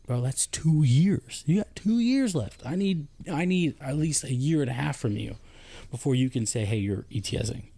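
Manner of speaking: incredulous scolding. Retold or imitated. Retelling telling off a soldier.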